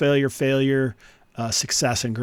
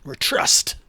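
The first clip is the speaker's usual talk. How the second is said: breathy stage whisper, slightly raised in pitch; whispering captive; 2 semitones higher than usual. Acted. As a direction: whisper helplessly as a tied-up prisoner. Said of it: "One of 'em whispers back".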